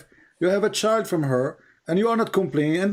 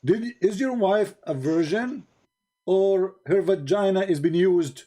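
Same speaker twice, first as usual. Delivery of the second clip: mock question; 3 semitones higher, slower than usual. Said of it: "he asked other man".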